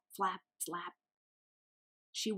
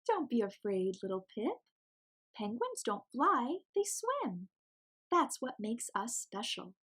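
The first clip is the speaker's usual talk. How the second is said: reassuring mama penguin; 3 semitones higher than usual. Acted.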